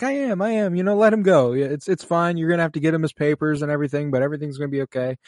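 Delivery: lightly voiced Gustave smoothing it over, speeding up; a hint of Gustave calming the officer; light Gustave impression. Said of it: "And he's like".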